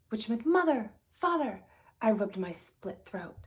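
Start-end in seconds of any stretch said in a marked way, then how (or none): 0.4-1.6 much higher, louder, slow drawn-out call; screaming. Acted. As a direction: call out to mother and father, stretching it. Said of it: "immediately started screaming".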